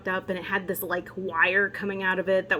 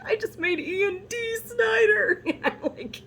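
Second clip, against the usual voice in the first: laughing; 14 semitones higher than usual. Retold or imitated. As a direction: giggle through the line. Retold own laughing at party.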